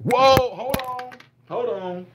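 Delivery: lightly overacted reactor; mock overwhelmed. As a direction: act floored by the music. Parody reactor overwhelmed again.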